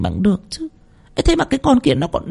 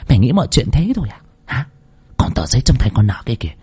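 quick, sneering second wife, pitch jumping higher; scornful scolding; 5 semitones higher than usual. A narrator's reading. Scheming second wife scolds her lover, sneering and fast. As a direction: snap at him with a curled lip. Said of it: "trợn mắt lên lườm nó, cong cái môi lên".

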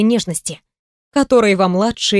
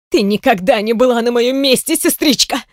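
mild shriek; 3 semitones higher than usual. Acted. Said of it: "взвизгнула она".

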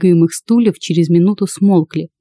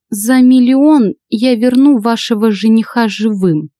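higher, slow and dry; 4 semitones higher than usual. Acted. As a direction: answer dryly. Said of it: "сухо ответила Фёкла".

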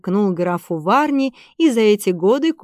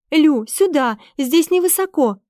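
higher, urgent call to the window; 7 semitones higher than usual. A narrator's reading. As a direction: hurry him over. Calling Lu to window.

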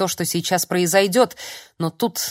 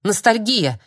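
выпалил; 3 semitones higher, 4 dB louder than usual. Acted. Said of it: "выпалил Филипп".

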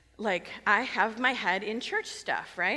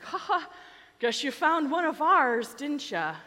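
casual nurse; 6 semitones higher, 6 dB louder than usual. Retold or imitated. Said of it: "and she's like".

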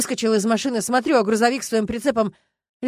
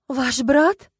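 higher, louder stunned question; shocked gasp; 4 semitones higher, 5 dB louder than usual. Acted. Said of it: "ахнула она". (потрясённо ахнув, выше и громче)

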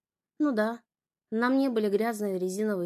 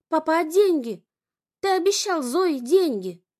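higher, loud, insistent; urgent protest; 6 semitones higher, 8 dB louder than usual. A narrator's reading. Sister protests to father about money, urgent. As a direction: remind him urgently.

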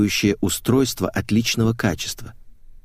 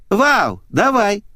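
high, eager little voice; delighted girlish squeal; 11 semitones higher, 4 dB louder, much slower than usual. A narrator's reading. Girl accepts the lift, high delighted voice. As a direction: squeak with glee.

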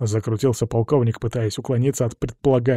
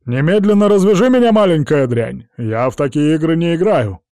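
furious shout; 6 semitones higher, 8 dB louder than usual. A narrator's reading. Bound colonel yells at captor.

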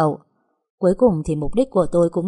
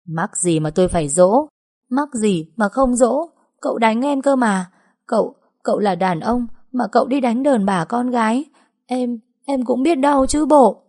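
tearful whine; 5 semitones higher than usual. Acted. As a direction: complain like a wronged crying girl. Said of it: "Thấy tôi mếu máo muốn khóc".

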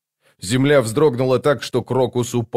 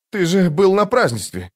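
high, startled outburst; blurted out; 8 semitones higher than usual. A narrator's reading. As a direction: blurt it in surprise, pitch leaping up. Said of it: "выпалил Крокус". (выпалить удивлённо, высоким голосом)

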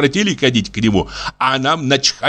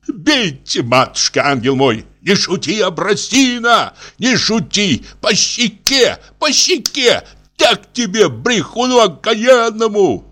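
pleading; 9 semitones higher than usual. Acted. Okurkin begs to be hit.

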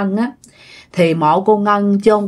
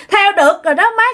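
put-on a lightly raised, pleased girl's voice; satisfied ghost voice; 11 semitones higher, much faster than usual. A narrator's reading. Daughter's ghost tells mother, pleased, in a dream. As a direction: sound smugly content calling mother. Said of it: "nói với cái giọng rất là mãn nguyện".

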